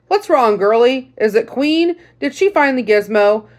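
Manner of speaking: lightly voiced grandfatherly veteran; old sergeant voice. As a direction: greet the girl like a folksy old sergeant. Sergeant asks what's wrong.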